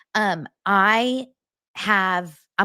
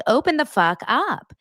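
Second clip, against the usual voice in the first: pounding-on-the-door yell, raised and higher; mock yell through the door; 7 semitones higher, 4 dB louder than usual. Ex-wife yelling at Charlie Sheen's door to open up. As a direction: bark it at the locked door. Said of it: "I'm like".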